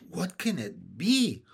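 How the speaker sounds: slow question full of wonder. A narrator's reading. Violet wonders about her grandfather's surprise, musing slowly. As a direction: stretch it out, wondering. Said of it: "wondered Violet".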